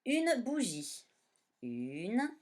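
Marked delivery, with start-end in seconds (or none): 0.1-1.1 Une bougie higher and slow; 「Une bougie」を高めにゆっくり; slow dictation. Shown as a demonstration. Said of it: "on va dire une géante".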